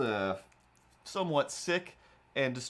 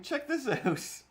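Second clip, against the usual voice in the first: put-on high slow girl voice; lightly voiced young woman; 14 semitones higher, slower than usual. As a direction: do her slow, teasing check this out. Imitating waitress again.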